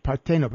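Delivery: Partenope repeated as par-TAY-no-pe; corrected pronunciation. Shown as a demonstration. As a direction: stress the second syllable of Partenope, copying the Italian. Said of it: "hope I'm pronouncing this".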